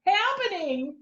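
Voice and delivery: the dogs asking why they are being yelled at, high and tearful; confused dogs. Acted. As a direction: plead like a baffled pet being yelled at. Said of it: "they're like".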